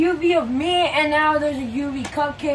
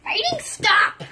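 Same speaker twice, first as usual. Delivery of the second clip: commanding character; 7 semitones higher, slower than usual. Pretend. Character halts the fight.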